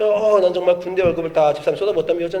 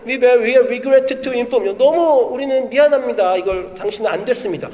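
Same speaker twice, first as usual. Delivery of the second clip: mock rejection email; 5 semitones higher than usual. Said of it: "모든 이메일을 보면".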